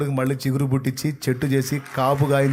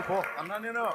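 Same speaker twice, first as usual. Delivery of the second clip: higher but far softer, almost under the breath; soft repeat; 7 semitones higher, 10 dB quieter than usual. Acted. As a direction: drop the voice on పో అన్నా నేను. God repeating his own command. (పో అన్నా నేను అని మెల్లగా)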